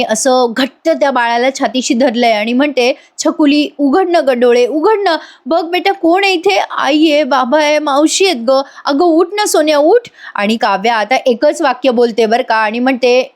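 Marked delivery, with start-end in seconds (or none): 3.2-10.1 high, coaxing plea; retold motherly pleading. Mother holds newborn close, begging her to look, pleading. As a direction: coax the baby awake with raised pitch. Mother coaxes unresponsive baby.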